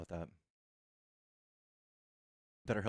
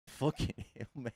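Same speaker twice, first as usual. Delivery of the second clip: laughing imitation of an Australian accent; mock Aussie accent. Streamer echoing the caller, laughing mock Aussie accent. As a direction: mimic the Aussie, breaking into laughter. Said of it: "That was a thick Aussie accent".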